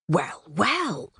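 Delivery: lightly voiced approving bird, a touch pleased; approving Robin. Robin admiring his reflection, lightly voiced and pleased. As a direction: savour it, mildly smug. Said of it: "he thought approvingly".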